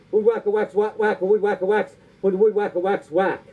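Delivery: rhythmic, repetitive tongue-twister patter; tongue-twister recital. Acted. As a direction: rattle it off in a singsong rhythm.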